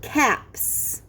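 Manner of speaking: Caps with a crisp, breathy hissed s at the end; clear teacher model. Shown as a demonstration. Teacher to class, whispering the word as a model. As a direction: whisper Caps, letting the final s hiss. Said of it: "The next word is caps".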